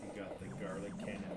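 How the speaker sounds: thin, tinny mic sound; tinny, metallic voice through a bad mic. Real, not acted. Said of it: "that's really tinny still".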